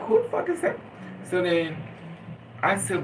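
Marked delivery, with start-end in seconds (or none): 0.0-0.8 high, shocked outraged question; shocked outrage. Retold or imitated. Asking about the woman who wrecked his house, high and shocked. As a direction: shriek it in disbelief. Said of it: "And I'm like".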